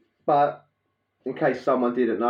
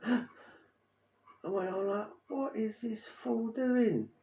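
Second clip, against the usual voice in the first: laughing; 9 semitones higher, 12 dB quieter, slower than usual. Real, not acted. Laughing at coworker's blunder.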